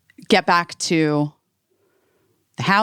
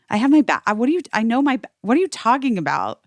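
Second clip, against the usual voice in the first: higher, flustered denial; indignant protest; 5 semitones higher, faster than usual. Retold or imitated. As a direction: protest in mild disbelief, tripping over words. Acted argument over the bag.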